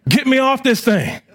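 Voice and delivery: high, mock terrified yell to get off the ride; retold panicked scream. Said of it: "I'm screaming like a, out of my mind".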